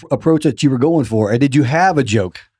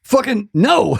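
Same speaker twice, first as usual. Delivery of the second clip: emphatic refusal; 9 semitones higher, slower than usual. Retold or imitated. Voicing a refusal to Lars.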